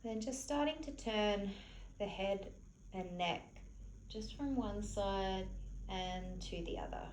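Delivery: soft, unhurried meditation-teacher voice; softly spoken, spacious relaxation cues; guided relaxation. Real, not acted. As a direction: gently guide them to relax, leaving long pauses. Leads a gentle relaxation.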